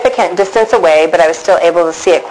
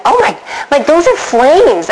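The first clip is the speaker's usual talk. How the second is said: rising alarm, pitched up and slowed; panicking; 6 semitones higher than usual. Retold or imitated. Woman watching earth burn, alarmed and rising. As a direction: retell the moment panic hits. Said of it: "and I start panicking".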